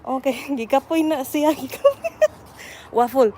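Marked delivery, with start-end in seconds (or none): 1.5-2.1 put-on squeaky high baby talk; squeaky praising a dog. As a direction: squeak it at the pup.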